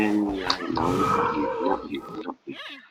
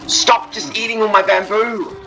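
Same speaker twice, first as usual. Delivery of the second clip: much higher, slow, louder mock-exasperated voice; mock scolding; 10 dB louder than usual. To the greedy pandas, slow high mock scolding. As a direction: scold like a fussy granny.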